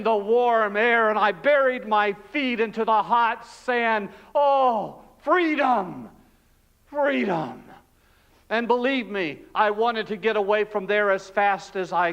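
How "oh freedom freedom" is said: higher, savoring each word; released prisoner savoring his freedom, elated; elated relief. Acted. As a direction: taste the word like sweet air.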